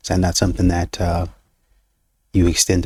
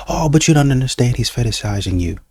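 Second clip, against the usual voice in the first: insistent friend; 4 semitones higher than usual. Retold or imitated. Friend insists, voiced higher.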